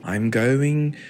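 slowly transitioning into British accent; slow, stretched mock British accent. Shown as a demonstration. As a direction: ease into a put-on British voice. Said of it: "My voice is gonna start transitioning".

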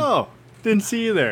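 high playful "didn't see you there"; sing-song surprised greeting; high mock greeting. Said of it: "imitating the intro line".

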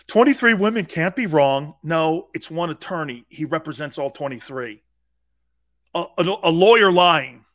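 mock media rant. Mocking what the media say.

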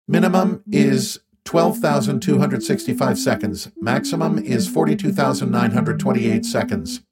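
an alien friend scolding, word by word; Rocky alien voice. Acted. Rocky speaks.

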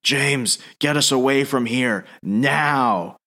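lightly voiced alien in short, separate phrases; a hint of a commanding alien, word by word; talking alien suit. Alien suit takes over and orders James, lightly voiced alien. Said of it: "And the suit starts talking".

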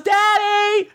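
put-on very high, excited little-girl squeal. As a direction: put on a tiny child calling out. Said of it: "she goes".

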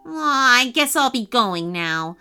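sighing start, falling away; mildly dejected elf; miserable. Acted. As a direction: give up and slink off. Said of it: "he said miserably".

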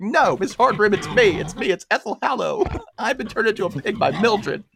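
high-pitched pleading voice; panicked pig Ethel. Retold or imitated. Pig Ethel pleads with the teacher, high and panicked. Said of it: "Ethel's like".

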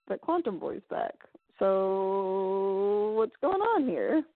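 slow, drawn-out puzzled question; lightly voiced confusion; confused. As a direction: drag the last words out, lost. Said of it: "I was very confused by that scene".

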